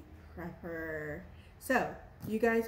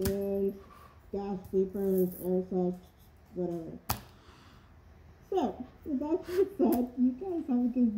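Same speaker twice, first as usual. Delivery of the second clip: muffled behind rubber mask; through a gas mask; 3 dB louder than usual. Real, not acted. Seen 1: Full rubber gas mask covers face throughout labelled words.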